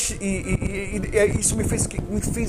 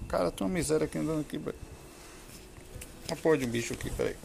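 muttered aside; 3 semitones lower, 11 dB quieter, much faster than usual. Real, not acted. Spider interrupts the recording.

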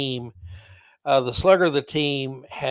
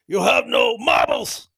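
mock Japanese player yell; 3 semitones higher, 7 dB louder than usual. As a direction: bark it out stuck for the word. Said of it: "And finally he goes".

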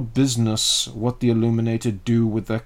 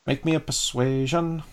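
lilting, higher sing-song; 5 semitones higher than usual. Shown as a demonstration. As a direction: sing it out teasingly. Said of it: "keep saying that in more of a sing-song voice".

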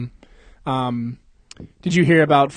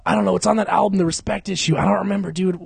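gushing fan; 5 semitones higher, faster than usual. Acted. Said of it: "I was like".

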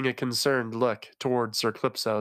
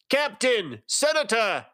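urgent call, much higher, not whispered; hoarse whisper; 11 semitones higher, 3 dB louder than usual. A narrator's reading. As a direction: cry out to the captain, high and urgent. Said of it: "called out in a hoarse whisper".

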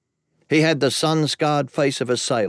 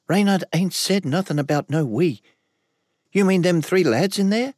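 higher, tense woman's voice; Ellis bristling; 8 semitones higher than usual. A narrator's reading. Ellis questioning Merilek about the others, higher and tense. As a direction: let her pitch climb in suspicion.

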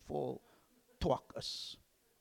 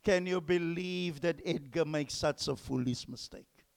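mocking teacher; 3 semitones higher, 7 dB louder than usual. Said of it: "He says".

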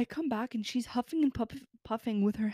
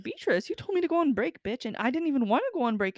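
heated retort; 5 semitones higher, 5 dB louder than usual. Retold or imitated. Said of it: "I said this calmly to her, though".

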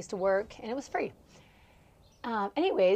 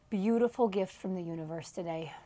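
soft whisper of awe; 2 semitones lower, 6 dB quieter than usual. Real, not acted. Whispering gratitude for the sunny day. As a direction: breathe it out like a secret.

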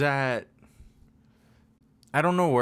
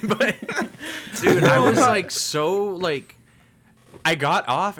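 high, loud laugh-through words; 9 semitones higher, 5 dB louder, slower than usual. Real, not acted. Telling the podcast crew the story, laughing loudly. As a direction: laugh while getting the words out.

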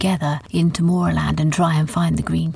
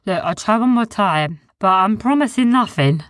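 Sniz's high voice; 3 semitones higher than usual. A narrator's reading. Sniz voiced in story.

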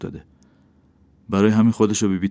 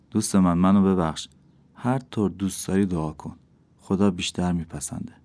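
regretful apology; 3 dB quieter than usual. Acted. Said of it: "از کردهٔ خود پشیمون شده بود".

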